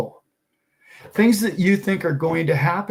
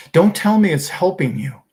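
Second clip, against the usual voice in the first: louder, exasperated challenge; worked up; 3 semitones higher, 5 dB louder than usual. Real, not acted. Telling off a man who follows doom videos, worked up. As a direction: push back, getting worked up. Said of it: "now I'm getting worked up".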